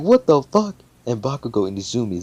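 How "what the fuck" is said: high, loud squawk of disbelief; incredulous outcry. Retold or imitated. Classmates stunned by the score, loudly incredulous. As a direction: act out a stunned crowd, rising at the end.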